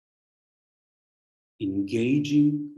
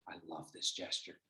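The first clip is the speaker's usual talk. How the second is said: usual speaking voice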